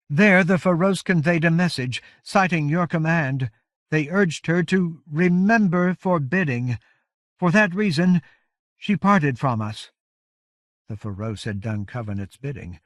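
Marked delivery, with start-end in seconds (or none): 0.1-9.9 raised, loud, weary giantess voice; exhausted giant leader. A narrator's reading. Iron Hand Coldspray pleading to Covenant, weary and solemn. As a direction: speak with spent, solemn strength.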